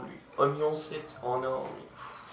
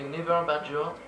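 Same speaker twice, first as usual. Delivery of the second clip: Never Bad George in an English accent, light. Shown as a demonstration. Gamer names a YouTuber in an English accent. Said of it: "j'ai pris l'accent anglais".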